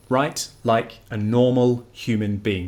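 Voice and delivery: slow, each word weighted; spelling out the golden rule deliberately, slow; slow emphatic motto. Shown as a demonstration. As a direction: lay it out slowly as the rule. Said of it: "Write like you talk".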